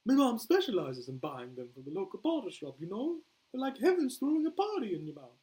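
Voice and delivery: high, loud hammed-up Australian; Australian accent. Boomer praises biscuits to Flag, Australian accent. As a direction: rave in a put-on Australian accent. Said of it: "worst Australian accent I've ever done".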